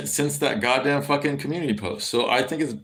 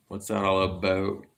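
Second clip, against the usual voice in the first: put-on lighter Ohio accent, "about" said the usual way, no "aboat"; 3 semitones lower, 4 dB quieter than usual. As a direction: say it like an Ohioan, with plain "about". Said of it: "it's not really more like out".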